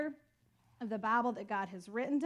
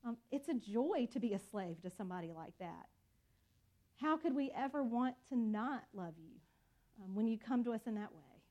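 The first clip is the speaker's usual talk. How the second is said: closing prayer. Acted.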